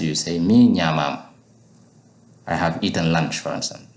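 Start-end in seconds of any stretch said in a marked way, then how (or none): 0.4-1.2 "Mi" louder and stressed; emphasize "Mi" in "Mi ñamam"; emphatic Mi. Shown as a demonstration. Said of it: "If I want to emphasize".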